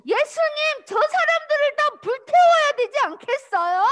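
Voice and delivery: high, loud angry plea; angry disciple demanding fire. Acted. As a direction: fume and demand punishment. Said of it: "요한이 화가 나가지고".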